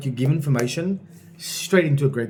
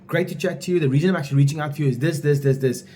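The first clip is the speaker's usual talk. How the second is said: high energy. Shown as a demonstration. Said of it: "It has to be high energy".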